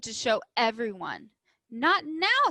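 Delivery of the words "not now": stern teacher. A narrator's reading. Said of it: "said Mister Slinger".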